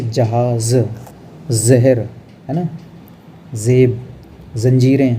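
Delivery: slow जहाज with z; teacher modelling z words; nukta z words. Shown as a demonstration. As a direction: say जहाज, जहर, जेब with z. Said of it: "उसको जा पढ़ेंगे".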